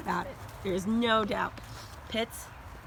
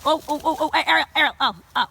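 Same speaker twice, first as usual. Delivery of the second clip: high, loud alarmed oh oh; loud startled cry to the dog; startled calling; 7 semitones higher, 12 dB louder than usual. Real, not acted. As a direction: burst out as the dogs collide. Dogs crash into each other.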